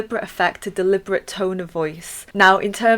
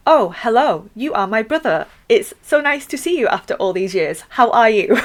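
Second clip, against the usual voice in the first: stiff robotic dialogue; 3 semitones higher, 4 dB louder than usual. Pretend. Teacher mocking stiff textbook dialogue, lightly stilted. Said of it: "it wouldn't be like".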